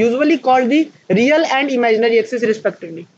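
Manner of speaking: reading a definition aloud very slowly for students to copy; teacher dictating notes at a crawl; slow dictation. Shown as a demonstration. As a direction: dictate it word by word, spacing each phrase. Dictates textbook line.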